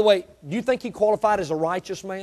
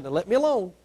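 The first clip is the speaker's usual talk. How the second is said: quiet plea; 6 dB quieter, faster than usual. Retold or imitated. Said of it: "God said".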